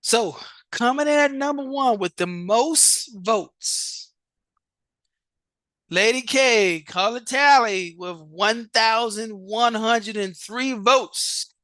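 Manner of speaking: announcing results with showman flair; drawn-out host announcement; game show host voice. Real, not acted. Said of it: "I really sound like a daggone, uh, game show host".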